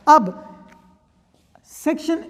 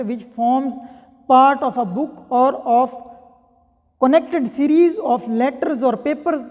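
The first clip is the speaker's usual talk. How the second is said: slow statute reading; much slower than usual. Shown as a demonstration. Reads statute text slowly.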